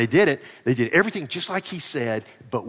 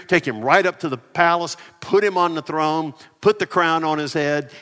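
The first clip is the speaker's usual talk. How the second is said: louder, ringing king's decree; royal command; 3 semitones higher, 5 dB louder than usual. Acted. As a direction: proclaim it like a king giving orders. Preacher voicing King David's orders.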